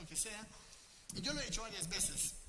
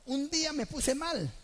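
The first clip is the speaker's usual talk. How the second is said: dramatic; 7 semitones higher, 9 dB louder, slower than usual. Acted. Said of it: "loud dramatic storytelling".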